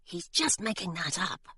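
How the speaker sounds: soft hushed aside; whispered aside. Acted. Charlie whispering to Hilary, soft and hushed. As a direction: lean in and whisper it. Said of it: "Charlie whispered to Hilary".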